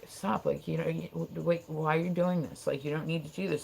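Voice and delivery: soft, mild reasoning; gentle pleading. Retold or imitated. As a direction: quietly try to talk him down. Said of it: "they were much nicer about it".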